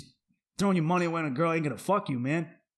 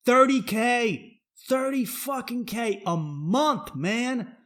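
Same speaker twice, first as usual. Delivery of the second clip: exasperated rant; 7 semitones higher than usual. Real, not acted. Ranting, mocking OnlyFans girls.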